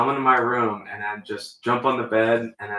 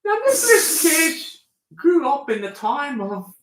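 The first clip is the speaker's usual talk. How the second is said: put-on mid-Atlantic accent; 14 semitones higher, 4 dB louder than usual. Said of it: "mid-Atlantic accent".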